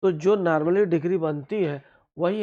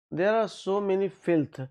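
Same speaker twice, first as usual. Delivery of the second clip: slow reading aloud; 4 semitones higher, much slower than usual. Shown as a demonstration. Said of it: "filth क्या है?".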